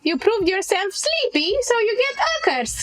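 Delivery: mocking young hag. GM plays hag, rising mockery.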